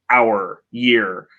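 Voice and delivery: "hour, year" with each final R sounded; American R endings. Shown as a demonstration. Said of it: "with the R sound".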